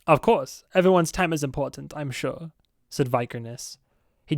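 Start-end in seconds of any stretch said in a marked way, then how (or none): 0.1-2.5 put-on Swedish accent. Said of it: "I know it's more German".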